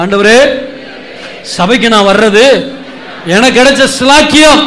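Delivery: prayer said aloud. Shown as a demonstration. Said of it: "எல்லாம் சத்தமா சொல்லுங்க பார்க்கலாம்".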